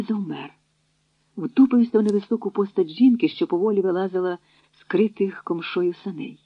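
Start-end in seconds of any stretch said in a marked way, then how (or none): none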